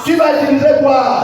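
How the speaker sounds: shouted question to the crowd; pressing the congregation for the answer, shouted. Shown as a demonstration. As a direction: push the question out hard. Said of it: "repeated louder".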